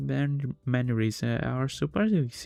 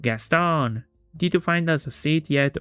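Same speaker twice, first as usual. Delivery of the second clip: raised voice, mildly projected; calling out; 5 semitones higher, 4 dB louder than usual. Acted. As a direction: call out to a companion behind you. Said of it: "calls out loudly".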